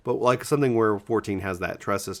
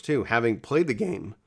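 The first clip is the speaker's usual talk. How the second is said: voice crack; 3 semitones higher than usual. Real, not acted. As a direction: voice cracking mid-phrase. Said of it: "As my voice cracks".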